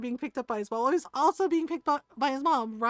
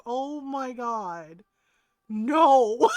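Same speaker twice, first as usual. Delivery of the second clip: laughing disbelief; 7 dB louder, much slower than usual. Real, not acted. Aunt reacting, laughing.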